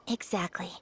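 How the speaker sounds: Exactly whispered under the breath. Acted. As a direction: murmur it to yourself. Answers herself under her breath.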